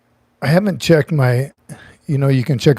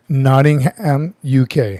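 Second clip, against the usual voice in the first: mock British accent; slower than usual. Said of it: "I didn't say it like that".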